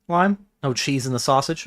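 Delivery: puzzled, questioning repeat of the sign; incredulous echo. Real, not acted. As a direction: repeat it as a bemused question, rising at the end.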